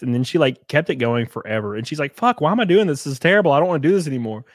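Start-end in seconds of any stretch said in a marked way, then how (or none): 2.1-4.4 louder, higher mock frustration; retold fed-up outburst; acted exasperation. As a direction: complain as if fed up with yourself. Acts out friend's exasperation.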